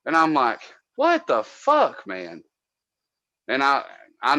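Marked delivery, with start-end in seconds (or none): 1.0-2.4 high, slow, stretched-out what the fuck; exasperated disbelief. Retold or imitated. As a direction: drag it out in total disbelief. Exasperated at idle coworker.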